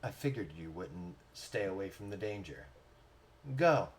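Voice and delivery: softly voiced, understated wise figure; a hint of a knowing mentor, hushed and low; wise smiling mentor. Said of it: "with wise eyes and smiles".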